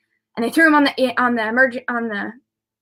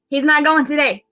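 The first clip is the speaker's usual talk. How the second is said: higher-pitched, emphatic declaration; retold insistence; 5 semitones higher, 3 dB louder than usual. Mother refusing to let her son go, retold insistence.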